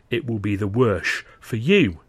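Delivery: slow, deliberate mocking echo of his threat; a cold, slow, mocking menace; threat thrown back. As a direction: turn his own words on him.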